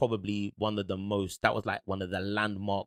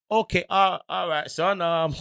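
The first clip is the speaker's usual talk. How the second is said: put-on higher older dad voice, hesitant; dad's voice; 6 semitones higher, 4 dB louder than usual. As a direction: play his dad, unsure and higher.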